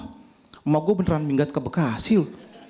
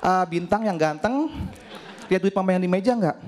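mock sweet mom; 3 semitones higher than usual. Mother asking sweetly, slowly. (ibu bertanya manis dan pelan)

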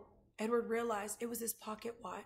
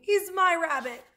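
high, loud, indignant yell; screamed claim; 7 semitones higher, 11 dB louder than usual. A narrator's reading. Abilene claims her rabbit from the boys, yelling. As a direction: yell it, insisting he is yours. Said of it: "screamed Abilene".

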